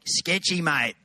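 broad Australian "mate"; casual Australian drawl; Aussie accent. Shown as a demonstration. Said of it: "Say it like an Aussie".

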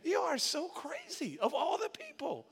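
high voice with laughter breaking through; amused high protest to God; laughing at God. Retold or imitated. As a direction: laugh it out in disbelief. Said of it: "I'm like".

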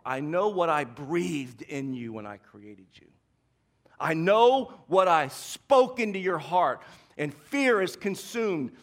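slow and steady, a promise of worth; slow, reassuring God voice. Retold or imitated. God to Gideon in the pit, slow and reassuring. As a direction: speak it slowly, like God reassuring. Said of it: "That's what God wants to say to you".

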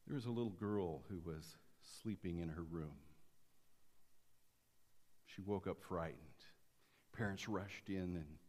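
usual speaking voice

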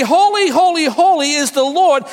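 preacher lifting the congregation with loud praise; proclaiming. Shown as a demonstration. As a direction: declare it like a herald. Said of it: "is to declare his holiness".

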